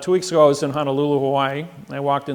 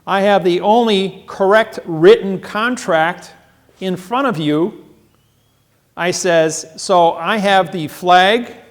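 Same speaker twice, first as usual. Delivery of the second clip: louder and slow, each item rising; slow emphatic declaration; 3 semitones higher, 6 dB louder than usual. Retold or imitated. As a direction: drive home every claim. Listing his authority to the judge.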